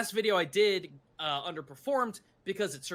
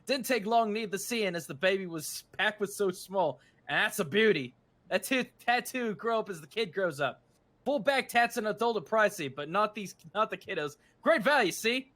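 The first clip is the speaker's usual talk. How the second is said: chirpy mock-British salesman patter; pseudo-British accent; 3 semitones higher than usual. Tattooist touting great value for kiddos, pseudo-British accent. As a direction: sell it in a put-on British accent. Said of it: "with the pseudo-British accent".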